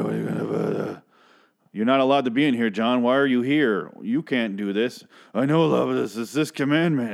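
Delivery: hammed-up bickering between two characters; mock argument. Acted back-and-forth argument from show.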